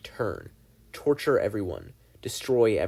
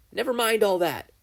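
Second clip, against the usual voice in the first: lightly voiced gleeful demon, a bit higher; Bill the demon; 11 semitones higher, 4 dB louder than usual. Bill brushes off memories.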